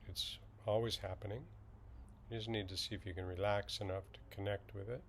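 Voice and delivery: slightly hushed, even meditation guide; calm, unhurried instruction with long silences; guided meditation. Acted. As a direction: ease listeners into settling, with long pauses.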